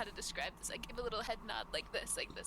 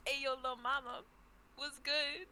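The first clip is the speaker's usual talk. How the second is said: flirty street greeting; 4 semitones higher, slower than usual. Acted. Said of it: "That's how I speak to the angel".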